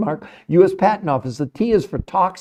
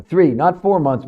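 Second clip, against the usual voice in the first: "Three" punched and held, slower correcting tone; stress on three; 3 semitones lower than usual. Real, not acted. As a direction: hit "Three" hard, set it against "four". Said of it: "You misread it".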